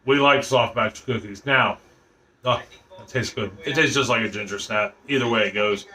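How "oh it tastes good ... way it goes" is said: mouth full. Real, not acted. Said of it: "sorry, I didn't mean to talk with my mouth full".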